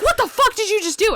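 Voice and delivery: high-pitched indignant question; imitated shocked outburst. Sammy reacts to swinging oar, high shocked voice. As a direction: blurt it in startled disbelief, mimicking a friend.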